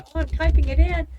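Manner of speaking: high, loud mock-innocent voice; playing dumb. To a phone scammer, playing dumb in a high loud voice. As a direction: pretend to be a clueless caller typing. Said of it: "I would just play stupid".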